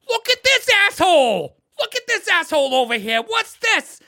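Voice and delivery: loud, high-pitched jeering yell; acted-out accusing shout; mocking guard shout. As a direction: holler it like an outraged guard. Acting guard who grabs him.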